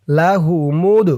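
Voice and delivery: "লাহু মুদ" with an echoing release on the final d; qalqalah push. Shown as a demonstration. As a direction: bounce the d closing "মুদ". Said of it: "ধাক্কা দিয়ে পড়তে হবে". ("মুদ"-এর দাল ধাক্কা দিয়ে)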